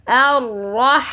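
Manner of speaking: "Ar-Rahman" with the nose pinched shut; pinching nose. Shown as a demonstration. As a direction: hold the nose closed while saying "Ar-Rahman". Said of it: "when I hold my nose".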